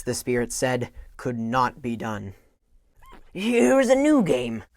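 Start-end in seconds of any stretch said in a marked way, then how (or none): 3.3-4.6 eager Scrooge. Acted. Scrooge pleads to stay.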